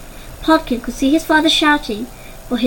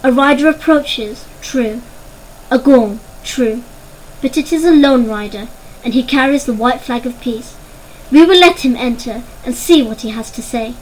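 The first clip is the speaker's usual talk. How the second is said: calm; 3 dB louder than usual. Acted. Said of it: "speaking in as calm a voice as he could".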